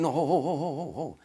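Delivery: high, repeated whoa-whoa stalling; urgent protest. Retold or imitated. Heading off Sammy's armed entourage, urgent acted protest.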